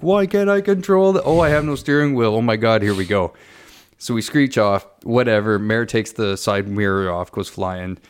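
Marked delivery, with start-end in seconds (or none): 0.0-3.3 higher-pitched mock panic, easing off. Passenger retelling a near crash, mock panic. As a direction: act out a frantic passenger. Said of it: "thinking I'm gonna die because I'm like".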